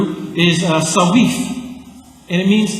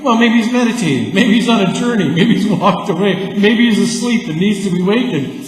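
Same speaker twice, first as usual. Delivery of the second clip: sing-song teasing list of excuses; mock the prophets with a singsong taunt; 5 semitones higher, 3 dB louder than usual. Preacher voicing Elijah mocking the prophets of Baal, singsong taunt. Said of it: "says Elijah".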